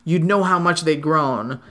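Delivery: measured, lilting verse reading; poem recitation. Acted. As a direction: read it out in steady singsong metre. Reads a poem aloud.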